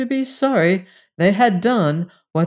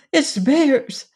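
Jane; 8 semitones higher than usual. Acted. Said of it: "said Jane".

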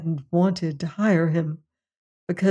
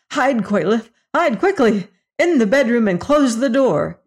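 urgent, rising higher and louder; urgent call; 4 semitones higher, 4 dB louder than usual. Acted. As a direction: hurry her out of sight. Homer urgently hides Quayleth.

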